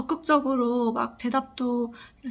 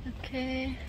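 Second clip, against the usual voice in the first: muffled behind mask; speaking through cloth mask; through a face mask. Real, not acted. Seen 0: Woman wears white surgical mask over mouth throughout the outdoor walk.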